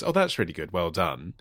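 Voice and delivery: quietly faking praise for a bad drawing; suppressed laughter. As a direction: praise while stifling a giggle. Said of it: "difficult to suppress laughter".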